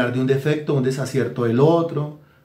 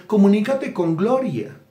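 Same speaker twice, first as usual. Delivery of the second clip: mock divine order; 6 semitones higher than usual. Flatterer quoting what God told her.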